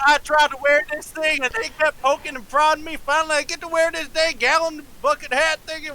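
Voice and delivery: put-on high and bright in a Southern accent; excited. Doug rejoices over wearing his cowboy hat, excited. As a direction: gush about the hat, delighted.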